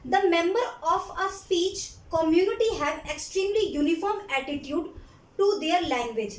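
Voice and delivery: slow, word-by-word dictation for note-taking. Shown as a demonstration. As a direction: read it out slowly so students can write. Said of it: "मैं धीरे-धीरे बोलूँगी". (धीमे-धीमे लिखवाना)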